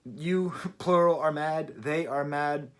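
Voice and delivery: slow, mock grammar-drill recital; deliberate conjugation with a small laugh; reciting a conjugation. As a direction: spell it out like verb forms, amused. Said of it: "He seems to just be conjugating".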